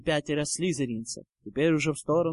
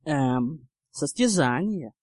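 hesitant; slower than usual. Acted. Harry caught without a plan.

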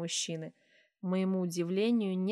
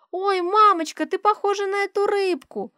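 put-on high, loud little girl teasing; bright child's voice; giggly child; 13 semitones higher, 9 dB louder than usual. A narrator's reading. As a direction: tease mum like a delighted child. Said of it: "смеётся".

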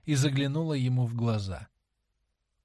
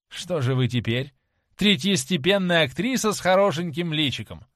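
angry shouting; 2 semitones higher, 5 dB louder than usual. Acted. Dorian rejects Sibyl after her bad performance, angry shout. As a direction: pour contempt on her, building. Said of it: "закричал он".

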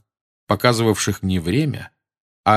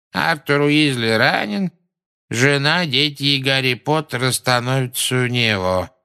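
bored voice; 5 semitones higher than usual. A narrator's reading. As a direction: repeat it as if utterly bored. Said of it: "скучающим голосом повторил". (скучающим голосом)

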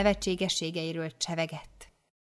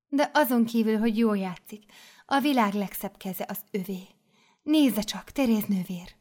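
admiring mother superior; 2 semitones higher than usual. Acted. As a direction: show off the girl's hands.

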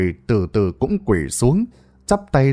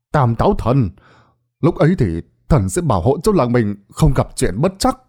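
a lightly raised storyteller's crowd address; loud announcement; 3 semitones higher than usual. Acted. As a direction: tell the villagers a tall tale, loudly. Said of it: "nó mới lên tiếng nói lớn". (kể lể lớn tiếng với dân làng)

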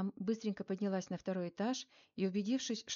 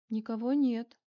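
louder, surprised exclamation; a young woman finding the room empty; surprised girl peeking into the empty office; surprised girl's voice; 3 semitones higher, 7 dB louder than usual. A narrator's reading. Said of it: "удивлённый девичий голос".

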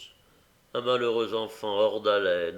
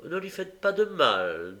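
compassionate; 4 semitones higher than usual. Acted. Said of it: "avec compassion".

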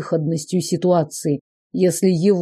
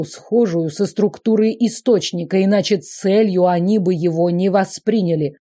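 cheerful; 2 semitones higher than usual. Acted. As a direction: answer eagerly, full of pep. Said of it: "бодрый ответ Лаврентина".

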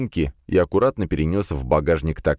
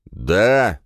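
louder short bark into phone; drunken bark; 4 semitones higher, 5 dB louder than usual. Acted. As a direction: snap a drunken yes. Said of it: "рявкнул в трубку".

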